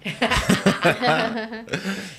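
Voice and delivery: real burst of laughter; loud, hearty laugh from a listener; amused laugh. Real, not acted. Host reacting to co-host's "modinha" confession, amused laughter.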